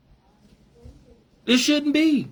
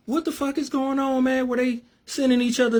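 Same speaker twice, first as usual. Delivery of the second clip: shocked disbelief; 5 semitones higher than usual. Retold or imitated. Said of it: "she was like".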